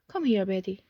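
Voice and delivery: "Betty" unstressed, continuing the fall from "here"; unstressed address. Shown as a demonstration. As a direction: let "Betty" trail the melody of "Come here". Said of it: "it is unstressed and continues the melody".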